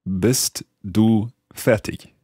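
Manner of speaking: slow, careful learner's German accent; learner's German accent, slowly echoing the teacher; rather bad German accent. Shown as a demonstration. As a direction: repeat it word by word in a non-native German accent. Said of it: "in my rather bad German accent".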